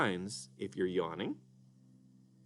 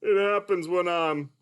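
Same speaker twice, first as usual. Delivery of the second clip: Mister Dolphin puppet; 6 semitones higher, 4 dB louder than usual. Acted. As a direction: play a sleepy, sing-song puppet. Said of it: "Mister Dolphin".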